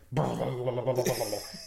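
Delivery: loud rolling "blll" noise; imitated babbling noise. Showing off the baby at a christening, silly burble. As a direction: burble a silly string of sounds. Mimicking a dull baby presentation.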